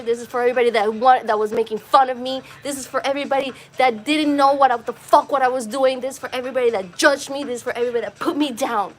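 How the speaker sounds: fast, pressing repetitions; rushed tearful litany. Retold or imitated. Crying out to everyone who judged him, racing through the list. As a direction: pour out each line in a rush. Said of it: "I was just fucking just bawling".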